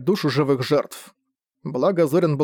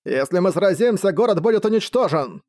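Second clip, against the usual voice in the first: magically amplified call; 4 semitones higher than usual. Acted. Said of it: "усиленный магией голос Джернака".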